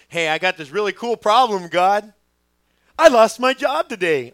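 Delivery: loud, high, slowing cheerful announcement; hammed-up upbeat prayer about losing a job; mock cheerful prayer. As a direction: tell God the bad news like it's great news.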